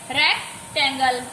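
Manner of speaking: "रेक्टेंगल" broken after रेक; teacher splitting "रेक्टेंगल" into रेक and टेंगल; syllable split. Shown as a demonstration. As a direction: pause inside "रेक्टेंगल" between its parts. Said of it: "बोल के repeat करके देखना है".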